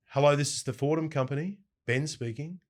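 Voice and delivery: polite business receptionist greeting, lightly voiced; professional phone answer. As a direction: answer the company line formally and properly. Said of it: "a different level of professionalism required".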